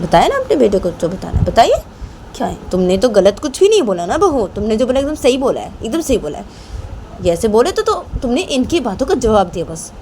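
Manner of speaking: lively, insistent reassurance; supportive aunt. Acted. Younger aunt assures Rahma she answered rightly, supportive. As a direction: back her up firmly, pitch lifting on the praise.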